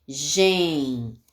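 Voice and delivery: "Gen" held out as a single syllable; isolated syllable. Shown as a demonstration. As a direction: give "Gen" alone, stretched for the pupils. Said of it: "Qual é a primeira sílaba".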